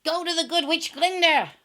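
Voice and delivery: loud, high call from far off. Acted. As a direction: call down from the rising balloon. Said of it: "called the wizard".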